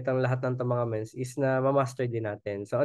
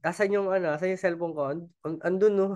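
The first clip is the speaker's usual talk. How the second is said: mock searching; 4 semitones higher than usual. Acting out pointing to things.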